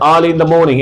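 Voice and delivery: "morning" said "moning", no r; r dropped in morning. Shown as a demonstration. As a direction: say "Early in the morning" without the r sounds. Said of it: "আরটা উচ্চারণ হবে না". (আর ছাড়া "morning")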